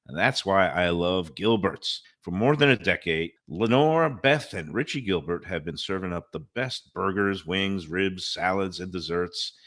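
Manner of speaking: upbeat pitchman read; radio ad read. Acted. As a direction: sell it like a local radio host. Reads live radio ads.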